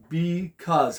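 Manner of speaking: "Because" split into two beats, be and cause; syllable split. Shown as a demonstration. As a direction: say "Because" with a gap between syllables. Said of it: "How many syllables?".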